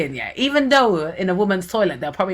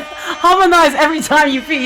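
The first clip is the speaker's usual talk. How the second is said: mock sing-song; 9 semitones higher, 6 dB louder than usual. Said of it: "Raina said".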